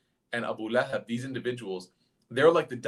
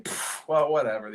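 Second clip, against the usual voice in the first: dismissive scoff. Retold or imitated. Crowd member hearing about meeting the prophets, dismissive. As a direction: puff of disbelief, then shrug it off. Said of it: "you hear the murmurs in the crowd".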